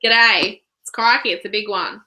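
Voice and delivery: lightly faked Australian bogan accent; badly faked broad Aussie bogan. Shown as a demonstration. Co-host attempting a bogan voice for laughs, half-hearted bogan accent. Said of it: "I can't fake an Australian accent".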